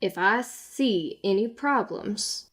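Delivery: slow, lightly voiced guard; measured officer warning; warning law officer. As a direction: warn them slowly and deliberately. Guard warns after sighing.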